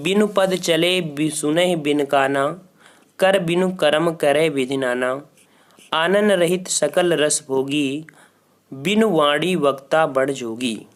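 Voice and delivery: slow, measured verse reading; chanting an old verse to a class; poem recitation. Acted. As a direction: read the couplet out slowly, line by line.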